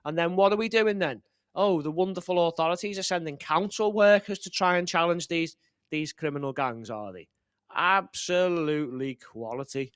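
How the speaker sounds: dripping with sarcasm; mock praise, sarcastic. Real, not acted. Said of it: "that's me being sarcastic".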